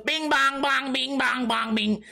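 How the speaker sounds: high mocking chant, falling as it goes; goofy mimicry. Comic imitating the player who looks back, goofy chant. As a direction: parrot the silly bounce noise back.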